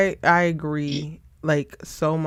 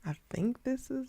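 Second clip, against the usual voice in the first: muffled, like underwater; as if speaking underwater; 6 semitones higher, 15 dB quieter than usual. Real, not acted. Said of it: "I sound like I'm underwater".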